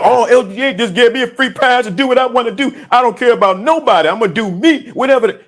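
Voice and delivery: mock the careless ones who twist his words; mocking entitled voice. Preacher mocking his entitled listeners in a cocky voice. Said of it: "some people get this and like".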